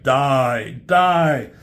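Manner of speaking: mock villainous bellow; villain's attack cry. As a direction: punch each word, building. Acting villain attacking hero.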